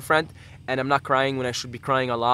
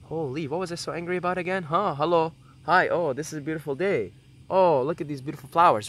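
relieved and calm. Pretend. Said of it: "And then you'll feel".

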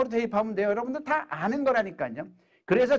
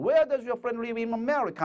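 slow, showy English with a pose; with flair; 3 semitones higher, much slower than usual. Shown as a demonstration. Teacher showing off the sentence, striking a pose. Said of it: "하면서 폼도 잡아가면서요".

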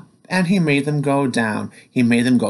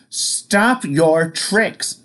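calling out; 5 semitones higher, much slower than usual. Acted. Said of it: "called Sam".

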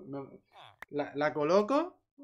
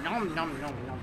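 nom nom chomping. Acted. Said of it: "Coge la piedra y dice".

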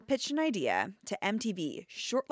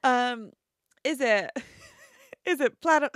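laughing ditzy question; 6 semitones higher, 5 dB louder than usual. Retold or imitated. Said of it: "quoting iconic dumb blonde moment".

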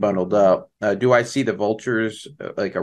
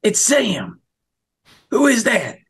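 nervous character voice; 11 semitones higher than usual. Acted. Sam answers the stranger in character.

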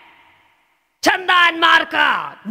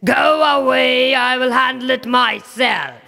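angry dismissal; 7 semitones higher than usual. Acted. Demon king dismisses the teachers, angry shout. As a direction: wave them off in anger.

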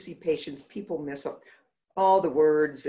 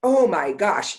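louder, excited exclamation; delighted gasp; 2 semitones higher, 7 dB louder, slower than usual. Retold or imitated. Child thrilled by the imagined magic book, louder excited gasp. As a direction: imitate a child's sudden delight.

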